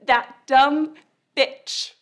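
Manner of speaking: mock inner snarl. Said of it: "and you'll think".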